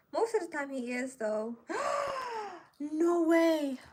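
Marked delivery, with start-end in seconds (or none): 1.6-2.6 sharp gasp. Real, not acted. She has just scorched the fabric. 2.8-3.8 shocked. Real, not acted. She has just scorched the fabric.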